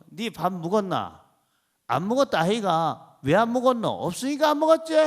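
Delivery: a light Gyeongsang back-and-forth about eating; Gyeongsang dialect. Retold or imitated. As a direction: play both Gyeongsang speakers lightly. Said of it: "또 경상도 사람 있죠". (경상도 사투리 대화 흉내)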